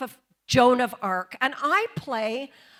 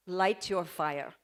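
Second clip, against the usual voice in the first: low, soft, calm acceptance; calm resignation; 8 semitones lower, 7 dB quieter than usual. Shown as a demonstration. Joan accepting the stake as director asks, calm. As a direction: say it quietly, no argument left. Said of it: "You just calmly say".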